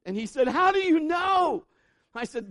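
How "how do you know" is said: high, loud, slow frantic question; panicked shout. Retold or imitated. Seatmate shouting at the preacher, high frantic panic. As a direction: mimic a terrified man yelling.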